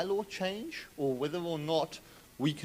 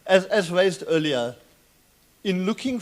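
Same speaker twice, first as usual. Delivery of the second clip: breathless after a dash; out of breath; 7 dB louder than usual. Real, not acted. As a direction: still winded, loud. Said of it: "sorry, I'm a little bit winded".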